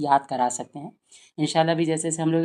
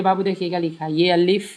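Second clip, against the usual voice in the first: lightly voiced teacher coaxing a child, louder; 4 dB louder than usual. Mother coaxes a child to name letters, encouraging. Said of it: "बोले".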